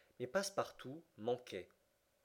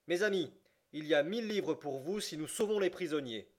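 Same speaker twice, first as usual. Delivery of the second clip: rallying address; 5 semitones higher, 6 dB louder than usual. A narrator's reading. Fogg addresses the soldiers.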